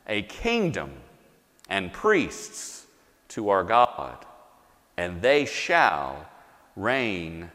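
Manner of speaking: measured, solemn reading of the passage; sermon scripture reading with slow swells. Acted. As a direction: read it slowly, with reverent weight. Reads scripture aloud to congregation.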